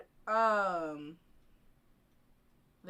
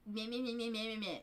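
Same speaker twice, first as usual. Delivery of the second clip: mocking meh; 3 dB quieter, faster than usual. Mocking Abe's Spanish correction.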